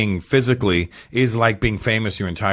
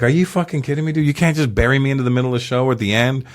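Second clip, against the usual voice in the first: retold anger; 3 semitones higher than usual. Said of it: "I was so fucking mad".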